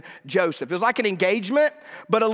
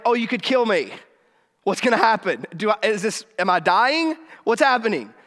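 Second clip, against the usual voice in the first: terrified; 2 semitones higher than usual. Acted. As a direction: play a mildly panicked, frightened reaction. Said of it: "she is terrified".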